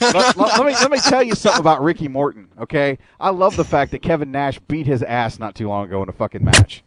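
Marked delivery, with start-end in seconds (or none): 0.0-4.6 heated rant. Real, not acted. Ranting about hated wrestler.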